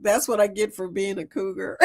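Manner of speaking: laughing. Shown as a demonstration. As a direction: quote said through a laugh. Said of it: "came up with a quote".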